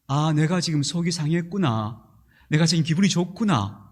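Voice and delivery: calm, measured self-observation; 차분한 알아차림. Shown as a demonstration. Models observing feelings, versus impulsive outbursts. (자기 마음을 차분히 살피는 말투)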